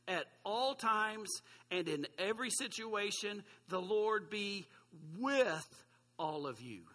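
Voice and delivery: drawn-out solemn reading; scripture reading, very slow. Acted. Pastor finishing the blessing for the congregation, slow and solemn. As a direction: let each phrase hang slowly.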